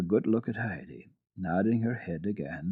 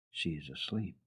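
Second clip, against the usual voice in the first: said to herself; 3 semitones lower, 11 dB quieter than usual. Acted. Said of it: "she said to herself".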